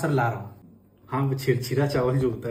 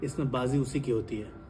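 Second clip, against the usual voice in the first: gloating tycoon villain; 3 semitones lower, 9 dB quieter than usual. Acted. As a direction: savour every boast like a movie villain.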